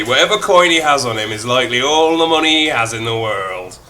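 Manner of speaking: Irish reading that slides toward Birmingham; a mild Irish-to-Brummy narrator; Irish accent dipping into Brummy. Acted. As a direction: let the Irish lilt slip into Brummy. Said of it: "Was that a Brummy accent?".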